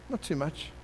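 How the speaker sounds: repeated softly, NOT too much falling quietly; quiet wry repeat of Not too much. Shown as a demonstration. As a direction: echo the phrase Not too much under the breath. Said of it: "sure, but not too much".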